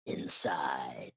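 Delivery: low, whispered single word; hushed awe. Real, not acted. Recounting going inside the pyramid, hushed awe. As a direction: drop to an awed whisper.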